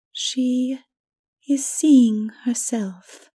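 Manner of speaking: hushed awe as she watches the princess; solemn Mara. A narrator's reading. Mara tells the narrator the princess sees herself, solemnly.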